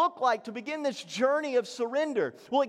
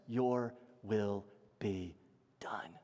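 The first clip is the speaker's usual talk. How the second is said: slow, low prayer fading to a whisper; humble surrender; 11 semitones lower, 8 dB quieter, slower than usual. Retold or imitated. Preacher voices the heart accepting God's no, humbly hushed. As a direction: say it softly, spaced out, sinking away.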